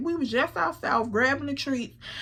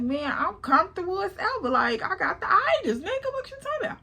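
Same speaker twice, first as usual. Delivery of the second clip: mock indignant; 7 semitones higher, faster than usual. Defending her nap.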